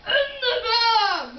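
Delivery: high shouted robber demand; bank robber. Pretend. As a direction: yell at the teller like a robber. Kid plays bank robber.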